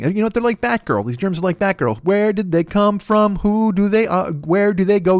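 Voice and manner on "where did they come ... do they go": dramatic mystery. Pretend.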